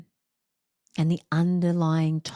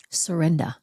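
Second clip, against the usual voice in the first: whispered. Shown as a demonstration. Speaker repeating her theme word in a hushed whisper. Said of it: "what really had to take place underneath it".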